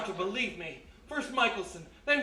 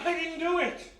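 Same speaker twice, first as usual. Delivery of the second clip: frantic protest; 6 semitones higher than usual. Acted. Accused man protests arrest.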